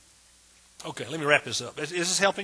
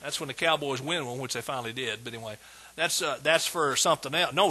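usual speaking voice

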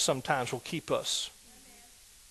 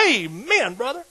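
shouted amen; 8 semitones higher, 5 dB louder, slower than usual. Retold or imitated. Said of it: "He said".

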